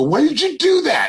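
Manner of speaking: high, loud alarmed cry; startled yell. Retold or imitated. Ghost hunter retelling his fright at the shadow, shrill yell. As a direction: yelp it out in fright. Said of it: "And I go".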